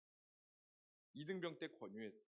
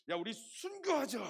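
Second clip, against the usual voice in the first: slow, loud and high zealous cry; rallying call; 7 semitones higher, 8 dB louder than usual. Retold or imitated. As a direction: rouse your friends. Teen rallying friends.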